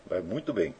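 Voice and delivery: "faz muito bem" repeated quietly, as an afterthought. Shown as a demonstration. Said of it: "Cantar faz muito bem". (repetição mais baixa)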